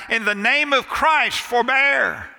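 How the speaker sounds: high pleading cry held up to the last word; cried out. Retold or imitated. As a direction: call it across the sand, pitch lifted. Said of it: "he cried out".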